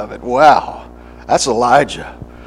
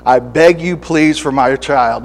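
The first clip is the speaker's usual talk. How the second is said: pleading prayer; 3 dB louder, slower than usual. Acted. Praying parent begging God.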